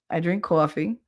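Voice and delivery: "coffee" as CAW-fee; Jersey accent. Shown as a demonstration. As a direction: show off the AW in "coffee". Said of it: "that's my accent".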